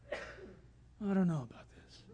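low, soft, very slow doubt; hesitant bird. Retold or imitated. Freed bird unsure about flying away, hesitant. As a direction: draw it out as a reluctant little creature.

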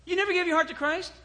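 high-pitched retold astonishment; incredulous. Retells astonished questioning of boy.

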